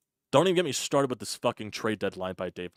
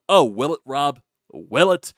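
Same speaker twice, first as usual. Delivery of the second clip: sarcastic taunt; 4 semitones higher, 10 dB louder than usual. Real, not acted.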